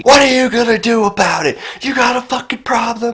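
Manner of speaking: high-pitched mock yell at the driver; mock screaming. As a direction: imitate a raging man shouting at a car window. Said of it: "starts screaming that I'm a fucking pussy".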